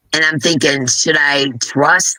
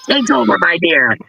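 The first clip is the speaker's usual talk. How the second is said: high cheery handover; 3 semitones higher than usual. Real, not acted. Hands stream to friend.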